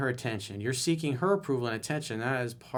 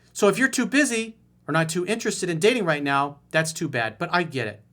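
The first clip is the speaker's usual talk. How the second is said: Karen impression; 4 semitones higher, 5 dB louder than usual. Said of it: "my best Karen impression".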